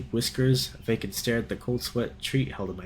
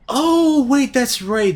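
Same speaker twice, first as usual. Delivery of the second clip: surprised; 13 semitones higher, 10 dB louder, much slower than usual. Real, not acted. Sudden realisation.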